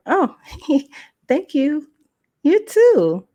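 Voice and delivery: put-on high, girlish thanks with a giggle; flattered politeness. Young woman answering the wife's compliment, flattered.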